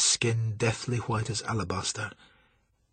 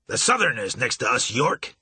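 snapped. Acted. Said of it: "he snapped".

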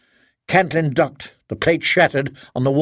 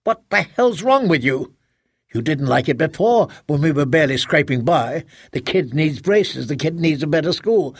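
angry husband. Acted. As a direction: throw it back at her in anger. Husband quarrels with wife.

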